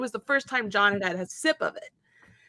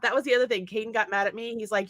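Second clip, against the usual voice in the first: ordinary talk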